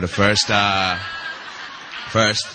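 put-on West African accent, owning up to it; fake West African accent. Speaker admits to the audience he is faking, mock West African accent. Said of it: "I'm faking this accent for you".

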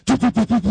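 imitated tunnel rumble. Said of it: "the noise is all trapped".

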